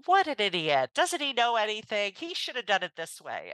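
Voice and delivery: mock indignant, starting high and loud then settling; exasperated inner rant. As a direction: grumble in disbelief at someone's incompetence. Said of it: "I get in this zone of".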